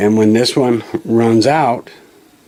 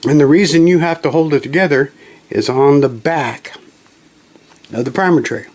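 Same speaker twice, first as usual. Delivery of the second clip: talking through hiccups; words broken by hiccups; 3 semitones higher than usual. Real, not acted. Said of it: "Sorry, I got the hiccups".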